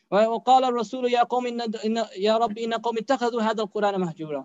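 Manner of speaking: rapid, flowing Quranic chant; Quran recitation. Acted. Preacher reciting the Surah Hud verse to the listeners, rapid chant. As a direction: run the verse in one melodic breath.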